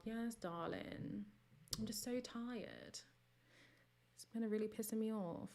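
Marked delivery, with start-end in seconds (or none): 0.0-3.0 weary. Real, not acted. Weary soft sigh.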